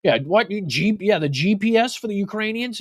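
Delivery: high, confused mock voice of a politician; Donald Trump. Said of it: "he calls it a G P S".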